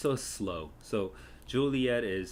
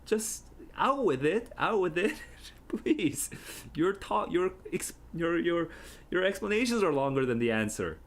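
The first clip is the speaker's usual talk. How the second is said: much higher, pleading and impatient; exasperated Juliet; 10 semitones higher, 4 dB louder than usual. Pretend. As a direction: burst out at the stalling Nurse. Voicing Juliet's exasperation herself.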